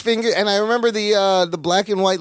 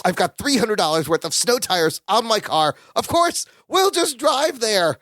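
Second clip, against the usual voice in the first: pitched-up frantic Larry, slowing on the last words; 4 semitones higher than usual. Retold or imitated. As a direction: gush the idea like a man who just cracked it. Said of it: "frantic Larry".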